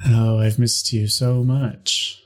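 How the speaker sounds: slow deadpan sarcasm. Acted. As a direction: say it flat and slow, not meaning it. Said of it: "tone of my voice".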